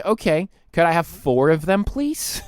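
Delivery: innocently polite ask; cheeky request. Retold or imitated. Customer cheekily asking staff for four cups. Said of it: "And I say".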